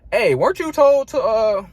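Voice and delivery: mock angry demand, pitched well up; confrontational supervisor. Supervisor confronts him on the floor, confrontational. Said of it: "He came at me crazy".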